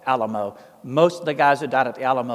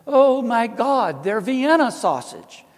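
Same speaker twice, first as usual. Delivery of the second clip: high, loud, slow retold boyish shout; excited shout; 8 semitones higher, 5 dB louder, slower than usual. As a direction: shout the discovery out to mama. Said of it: "I shouted out to my mother".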